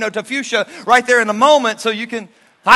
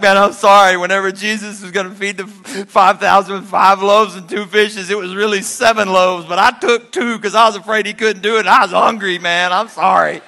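sheepish confession; 7 dB louder than usual. Retold or imitated. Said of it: "James is like".

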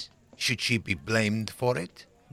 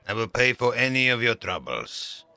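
firm command; 6 dB louder than usual. Acted. Astronomer asserting authority.

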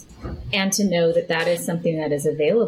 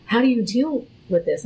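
laughing disbelief. Retold or imitated. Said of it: "they were just like".

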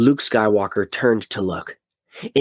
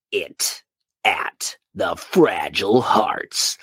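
slow hushed whisper for suspense; dramatic whisper; 3 semitones lower, much slower than usual. Acted. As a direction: drop to a whisper, drawing it out. Dramatic hush in blurb.

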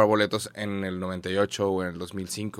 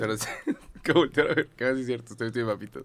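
far from mic; 3 dB quieter than usual. Real, not acted. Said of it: "Acércate al micro".

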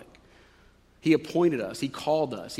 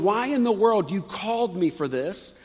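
mildly aggrieved complaint, pitched up a touch; frustrated whining; 2 semitones higher than usual. Acted. Jeremiah questions God about being called yet opposed, frustrated whining. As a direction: plead with a hint of frustrated whining. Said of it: "kind of whining to God a little bit".

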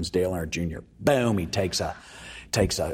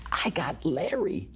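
retold proud reveal; 8 semitones higher, slower than usual. Acted driver's proud reveal.

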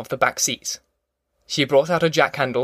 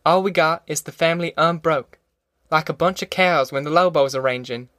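lightly voiced stubborn country mother; resolute Ma; 3 semitones higher than usual. Ma refusing to see the family bust up, understated resolve. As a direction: lay down the law, steadily.

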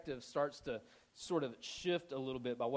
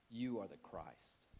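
slow, low and soft; hushed confession; 7 semitones lower, 9 dB quieter, slower than usual. Retold or imitated. Peter answering Jesus who he is, hushed confession. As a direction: say it slowly, quietly and low.

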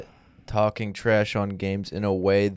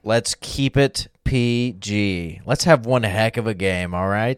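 wholesome Mormon gamer. Acted. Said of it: "That's how Mormons play".

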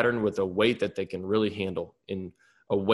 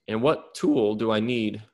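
voice cracking. Real, not acted. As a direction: voice cracks mid-question.

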